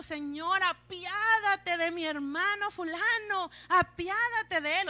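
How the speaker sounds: high, slow, loud mock-tearful plea; imitated weepy begging, drawn out; almost crying. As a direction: pray as if on the verge of tears. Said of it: "casi llorando".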